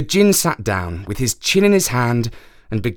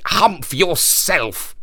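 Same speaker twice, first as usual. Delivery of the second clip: slow djinn command; 6 semitones higher, much slower than usual. Acted.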